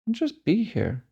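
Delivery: calm, unhurried meditation guide with long pauses; guided meditation. Real, not acted. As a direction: lead them gently into stillness, leaving space between phrases. Leads a breathing meditation.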